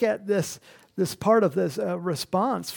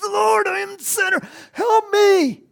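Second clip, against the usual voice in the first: much higher, louder pleading cry; mock repentant Saul; 9 dB louder than usual. Preacher imagining Saul repenting, loud pleading cry. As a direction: beg the Lord as a repenting Saul. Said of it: "get down on his knees and repent".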